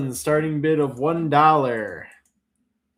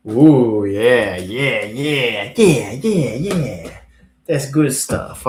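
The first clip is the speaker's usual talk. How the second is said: excited; 7 dB louder, slower than usual. Real, not acted. Delighted at a good roach.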